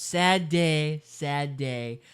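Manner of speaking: Trump. Acted. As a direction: do a light Trump impression. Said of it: "I'll do Trump's".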